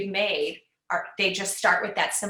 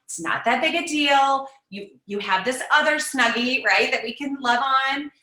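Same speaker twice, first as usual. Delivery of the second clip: dismissive parent; 3 semitones higher, 4 dB louder than usual. Retold or imitated. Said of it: "You don't try to dismiss it".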